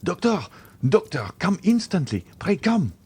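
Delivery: high, urgent shout for the doctor; crying out. A narrator's reading. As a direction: yell for the doctor in alarm. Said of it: "crying out".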